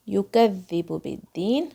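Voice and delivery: slow Quranic recitation of یکذب بالدین, ذال from the tongue tip. Shown as a demonstration. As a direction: recite یکذب بالدین slowly with light کاف. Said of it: "کاف کو قاف کی طرح نہیں بولنا ہے".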